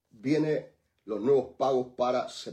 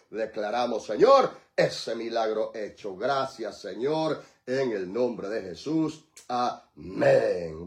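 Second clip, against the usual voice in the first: solemn prayer close; slower than usual. Real, not acted. Pastor closing intercession for the nations, solemn prayer. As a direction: bring the prayer down to a solemn amen.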